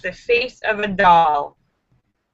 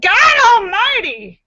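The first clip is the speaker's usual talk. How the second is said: mock shout; 10 semitones higher, 5 dB louder, slower than usual. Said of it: "she shouted".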